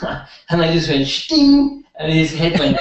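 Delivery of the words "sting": sudden high loud call of Sting; high startled exclamation; sharp cry. Retold or imitated. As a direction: bark it out like a sudden jab. Retold treating client, sudden call.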